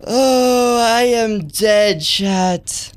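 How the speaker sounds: high, slow, drawn-out yell; alarmed wail. Real, not acted. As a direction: wail loudly to the viewers in defeat. Reacts to losing in game.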